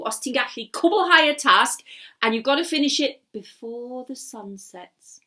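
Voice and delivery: loud, low, sly wizard voice; the wizard toying with his captive; scheming wizard. Acted. Wizard taunting captive Gareth, sly and loud.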